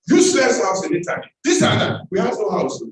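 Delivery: scornful retelling. Retold or imitated. Mother mocking the Italian house offer, scornful and loud.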